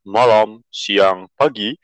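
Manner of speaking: mock airline captain intercom voice; pilot announcement. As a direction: play the captain greeting passengers.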